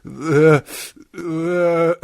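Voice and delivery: pained "ugh"; groan of discomfort. Retold or imitated. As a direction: groan as if your nose was just jabbed. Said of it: "That was my natural response".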